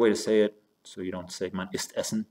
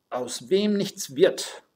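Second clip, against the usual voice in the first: "aus wem nichts wird" read very slowly and higher; slow, emphatic reading; 8 semitones higher, 4 dB louder, much slower than usual. Shown as a demonstration. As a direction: spell out the proverb word by word for the students. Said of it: "teacher reads a German proverb aloud".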